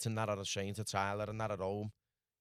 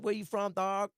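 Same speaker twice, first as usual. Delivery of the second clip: much higher, louder mock voice; a hammed-up higher street voice; imitating the stranger; 11 semitones higher, 5 dB louder than usual. The stranger questioning him outside the motel, higher and mock-loud. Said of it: "He's like".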